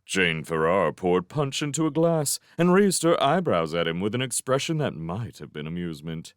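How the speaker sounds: plain reading voice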